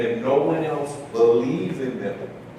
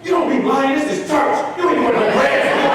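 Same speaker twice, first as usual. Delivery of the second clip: higher and louder, a mother scolding with a laugh; mother teasing; 12 semitones higher, 5 dB louder than usual. Retold or imitated. Mother doubting her son at graduation, high teasing voice. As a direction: tease him like his mother at graduation. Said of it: "she singing, and she said".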